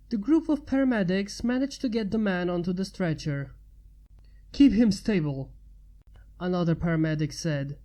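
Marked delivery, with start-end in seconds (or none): 4.5-5.5 urgent command. Acted. Paramedic urgent order.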